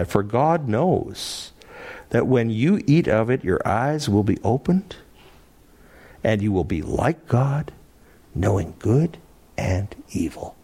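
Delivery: slow, coaxing serpent; cleverly sweet, measured temptation; winsome, loving. Acted. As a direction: lull the listener with loving persuasion. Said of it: "so winsomely said, so lovingly said".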